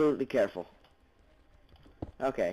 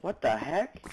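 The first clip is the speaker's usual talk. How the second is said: whisper; 2 semitones higher, slower than usual. Real, not acted. Startled whisper.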